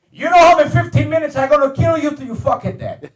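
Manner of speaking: put-on high Italian-accented threat; imitating an angry Italian dad threatening his son; mock mad father. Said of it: "So my father gets mad".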